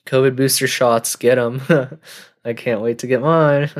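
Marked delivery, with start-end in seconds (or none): 2.5-3.7 sarcastic. Pretend. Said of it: "being sarcastic again".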